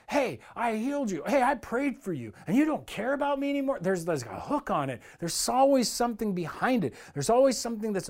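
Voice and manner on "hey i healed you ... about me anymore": imitating an annoyed, demanding believer, pitched higher; hammed-up resentful whine, rising at the end; mock ticked-off complaint. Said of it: "so ticked and so angry".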